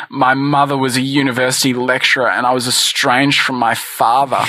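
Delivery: lightly put-on seductive voice; sexy contestant voice. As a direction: speak like a suave dating-show contestant. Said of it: "hard to focus on the topic with this voice".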